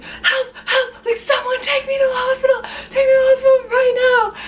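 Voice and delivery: high, half-crying plea for help; panicked plea. Retold or imitated. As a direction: beg to be taken to the hospital, voice cracking high.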